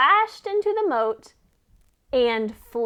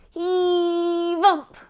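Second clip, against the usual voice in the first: effort grunt; 6 semitones higher, 5 dB louder than usual. Acted. Effort grunt while pushing.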